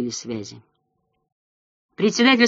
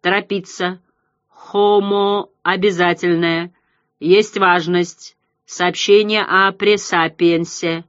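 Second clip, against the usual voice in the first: slow, pulsing alien croak with pauses; inhuman croaking voice; slower than usual. Acted. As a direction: eldritch horror voice, each word apart. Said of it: "пульсирующий, каркающий, нечеловеческий голос".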